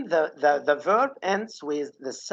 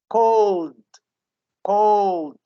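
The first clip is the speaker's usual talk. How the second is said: Cold said louder with weak d; emphatic example; 3 semitones higher, 6 dB louder than usual. Shown as a demonstration. Teacher drilling Cold for students. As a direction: say Cold loud, softening the end. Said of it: "The deh sound is very weak".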